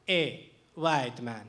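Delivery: slow drawn-out call across the quad. Retold or imitated. A stranger hailing him across the quad, slow drawn call. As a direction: stretch it out, a mock hail from afar. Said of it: "I hear somebody call out".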